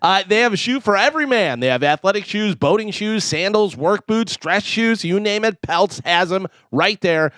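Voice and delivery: upbeat sponsor read. Acted. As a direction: sell the shoes like a live radio spot. Reads sponsor ad.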